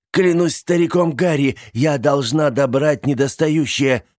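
high, loud vow; determined oath. A narrator's reading. Aunt vowing to recover herself, fierce. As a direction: swear it fiercely.

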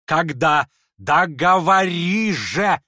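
loud, slow insistent cry; impatient demand. Acted. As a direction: force the answer out of him. Lizaveta presses impatiently.

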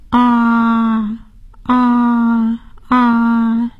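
drawn-out ahh for the doctor; saying ahh. Shown as a demonstration. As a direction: open wide and say ahh. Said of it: "请张开嘴说： “啊，啊，啊。".

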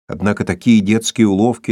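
ordinary delivery, nothing marked

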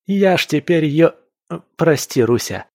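high, loud, elated exclamation; exhilarated show-off, briefly catching himself; triumphant boast. A narrator's reading. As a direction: boast excitedly of your new strength. Ilya shows off new strength.

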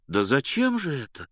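ordinary delivery

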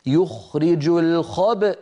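الخبأ ending in a glottal stop after the ب, slow. Shown as a demonstration. Teacher demonstrating the pause on الخبأ. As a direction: close the throat on الخبأ. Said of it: "هكذا".

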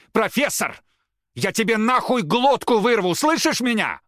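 very high, loud raging yell; furious threat. A narrator's reading. Рома screams a threat at the professor, furious. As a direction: scream the threat with full rage.

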